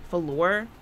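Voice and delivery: "floor" said as fuh-LOR, two syllables with a rise; odd pronunciation. Real, not acted. Streamer telling viewers she lives upstairs, "floor" slurred into fuh-LOR. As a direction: stretch "floor" into fuh-LOR, lifting at the end. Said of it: "I don't know why I said it like that".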